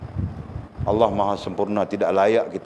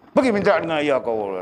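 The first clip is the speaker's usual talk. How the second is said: angry mother; 7 semitones higher than usual. Retold or imitated. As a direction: brush the child off sharply, mother's voice. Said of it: "marah dia". (ibu menolak dengan marah, suara tinggi)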